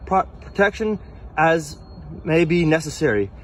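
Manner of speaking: slow, deliberate formal recitation; formal reading. Acted. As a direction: read each phrase slowly and solemnly. Reads passport text aloud.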